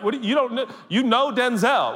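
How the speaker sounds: high baffled question; puzzled and thrown; confused. Acted. Acted confused asker.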